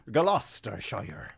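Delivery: slow, piratical West Country accent; Gloucestershire, half pirate; attempted Gloucestershire accent. Shown as a demonstration. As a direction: draw it out in a mock Gloucestershire burr. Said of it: "All of my accents sound like".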